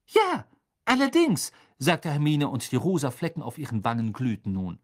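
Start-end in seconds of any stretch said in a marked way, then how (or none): 0.1-1.5 high, emphatic comeback; defiant admission. Acted. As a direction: throw the yes back defiantly. Hermine defiantly confirms in quarrel.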